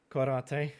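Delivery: Corentin said the French way, nasal final vowel; French pronunciation. Shown as a demonstration. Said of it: "I promised you the good pronunciation".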